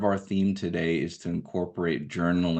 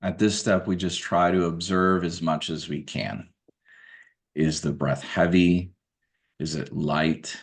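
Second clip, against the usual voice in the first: measured meditation guidance, spaced out by long pauses; guided meditation. Acted. Guide asking listeners to observe their everyday breath, guided meditation. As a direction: calmly direct attention to the breath, leaving room between phrases.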